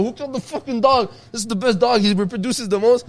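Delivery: very high, hammed-up angry demand; mock outrage. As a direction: rant as if wildly indignant. Retold armed demand, feigned outrage.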